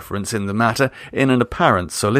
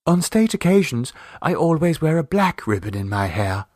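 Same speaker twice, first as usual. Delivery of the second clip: crushing dignity; 5 semitones higher than usual. A narrator's reading. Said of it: "said Vera with crushing dignity".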